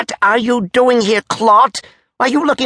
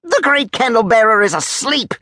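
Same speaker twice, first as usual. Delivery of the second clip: high, forceful bark; 12 semitones higher than usual. A narrator's reading. Major refusing to disturb the candle bearer, high barking. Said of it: "barked Crollo".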